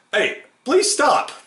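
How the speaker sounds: very high, slow pleading call; called-out plea. A narrator's reading. Negotiator pleading again with Mother Teresa, high call. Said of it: "the man repeated".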